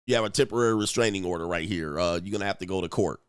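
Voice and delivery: lightly voiced sheriff, low and quick. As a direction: reel it off like an officer serving papers, slightly official. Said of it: "sheriff at the door".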